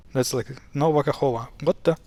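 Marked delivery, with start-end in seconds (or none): 0.7-1.5 Kahova with the last k missing; wrong K-less reading. Retold or imitated. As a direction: mimic misreading it as Kahova, ending -ova. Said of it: "drops it and reads it".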